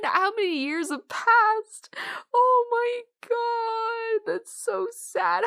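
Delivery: tearful. Real, not acted. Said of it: "I have actual tears in my eyes right now".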